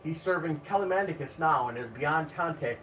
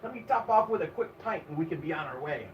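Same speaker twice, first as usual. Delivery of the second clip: put-on surly Irish accent; 3 semitones higher, 4 dB quieter than usual. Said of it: "In a surly accent".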